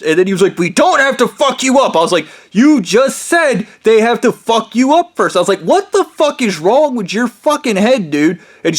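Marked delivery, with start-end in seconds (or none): 0.6-2.0 high-pitched imitation of his objection; mock indignant protest. Retelling the other man's protest. 2.5-5.3 high, incredulous argument voice; retold exasperated comeback. Retelling his exasperated comeback in argument. 5.6-8.4 higher-pitched, incredulous challenge; retold exasperated retort. Retelling his own angry retort.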